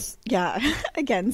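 talking with a mouthful; words round a bite of food; mouth full. Real, not acted. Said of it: "sorry, my mouth".

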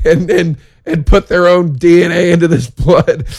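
spiral into a mock panic; panicking. Comic retelling his panic over the blood, frantic and high. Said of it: "Now I'm panicking".

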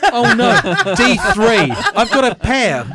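loud, high comic outcry; mock dismay. Player gets fruit from vending machine, mock dismay. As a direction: wail it in hammed-up disappointment.

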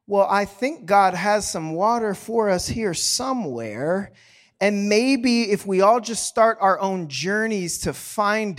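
a touch hesitant and over-gentle, slowing down; mild coaxing, tiptoeing around the point; mock timid soft-pedaling. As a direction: hedge it like you fear giving offence. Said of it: "that we soften the delivery".

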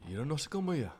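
mock Japanese phrase, lightly voiced. Joking with friend in mock Japanese. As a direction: toss off a fake Japanese title. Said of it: "add some more Japanese words".

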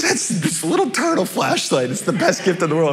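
lightly voiced excited three-year-old; a hint of a delighted child; happy little kid. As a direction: imitate a small boy thrilled with his gift. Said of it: "He was so happy".

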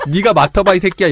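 irritated, half-laughing retort; annoyed snap. Retold or imitated. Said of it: "약간 이렇게 되는 거거든요".

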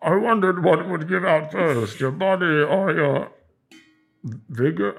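slow, muffled masked villain; drawn out as if through a mask; Bane voice. Pretend. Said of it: "Can you do the Bane voice?".

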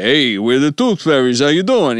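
breezy tooth fairy playing it normal; casual guy voice. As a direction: greet like a laid-back regular guy. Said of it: "if they'd both been like".

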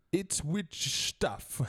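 slow, drawn-out reveal of the acronym; spelled-out acronym. Shown as a demonstration. Host revealing the game's acronym to the player, slow and drawn out. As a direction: stretch each word out like a punchline. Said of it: "which is actually".

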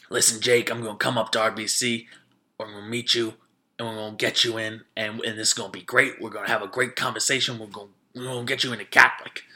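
lightly imitated coach making his pitch; slightly low, confident recruiter voice; deep-voiced coach. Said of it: "black coach with a really deep voice".

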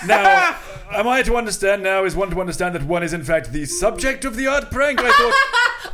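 lightly voiced stuffy thespian; hammy old stage actor; mock olde english. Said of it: "Is that what Derek Jacobi sounds like?".

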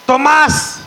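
high-pitched imitated yell; drunken dad's yell. Drunk father bursts in calling his son, imitated yell. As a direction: holler the name high, like Dad at the door. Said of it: "He would yell".

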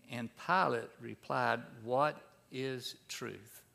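measured, unhurried Bible reading; scripture reading. Acted. Preacher reading John's gospel aloud to church. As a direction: read the passage to the congregation.

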